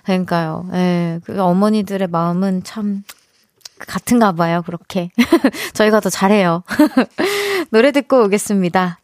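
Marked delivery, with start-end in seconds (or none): none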